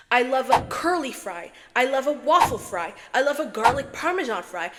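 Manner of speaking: loud, emphatic enthusiasm; gushing. Real, not acted. Ranking her favourite food of all time, gushing. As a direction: rave with punched, rising-and-falling stresses.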